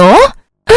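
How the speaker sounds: high, short cry on being hit; acted squeal of pain; pained yelp. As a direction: yelp as the blow lands. Daughter hit again by mother.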